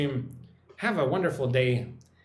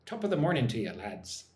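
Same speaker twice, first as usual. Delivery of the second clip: lightly attempted Irish accent, dropping away at the end; rough Irish accent. Shown as a demonstration. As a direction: have a go at a not-very-good Irish greeting. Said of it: "can't do a very good Irish accent".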